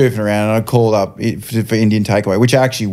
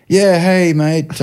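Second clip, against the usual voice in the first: higher put-on caller voice; disguised phone voice; 6 semitones higher, much slower than usual. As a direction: pose as a different customer on the phone. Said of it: "get me from my previous voice".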